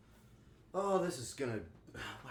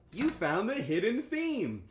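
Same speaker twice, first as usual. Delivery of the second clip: slow, higher, drawn-out grand announcement; mock dramatic reveal; 7 semitones higher, 3 dB louder, slower than usual. To chat, hamming up the hidden theme reveal, slow and grand. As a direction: unveil it like a game show secret.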